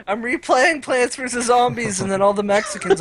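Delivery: put-on deliberately terrible Mexican accent, as a joke; bad Mexican accent. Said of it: "I can't do a Mexican racist accent".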